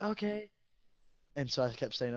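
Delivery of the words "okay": high, sing-song fake agreement; mock compliant okay. Student mocking staff by saying okay and staying put, high sing-song. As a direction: pretend to obey while not moving. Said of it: "I was like".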